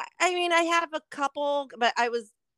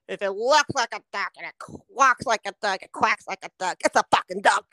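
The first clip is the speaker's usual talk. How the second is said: imitating dad; 6 semitones lower than usual. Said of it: "my famous words from my dad".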